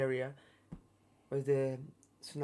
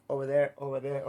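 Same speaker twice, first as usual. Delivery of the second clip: calling out; 7 dB louder, faster than usual. Retold or imitated. Tourists calling each other over.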